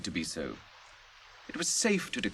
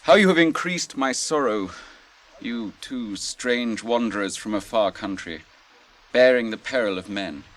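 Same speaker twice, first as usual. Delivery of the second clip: impassioned lament; 7 dB louder than usual. Acted. Faramir grieved and roused.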